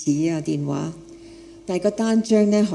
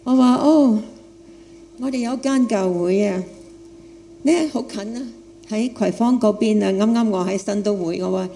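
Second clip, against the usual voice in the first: foreign accent Cantonese. Real, not acted. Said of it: "因為我係一個外國人，講廣東話".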